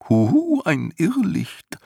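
high hooting hoo-hoo, then slow; eerie, drawn-out goblin murmur; murmuring night goblin. Acted. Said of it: "raunte der Nachtalb".

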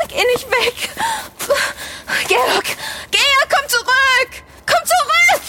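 desperate plea. Acted. Nolo begs Georg to come back, rising panic. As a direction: beg him not to leave you alone.

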